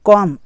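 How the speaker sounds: कॉम ending on M, no B; कॉम, closed on the lips at M; silent B. Shown as a demonstration. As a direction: say कॉम with the final B left silent. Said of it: "इसको कॉम पढ़ा जाएगा".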